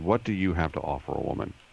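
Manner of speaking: very contemptuous, sneering voice dripping with contempt. Quoting a classmate answering his request for her number, mock contemptuous voice. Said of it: "in this very contemptuous voice".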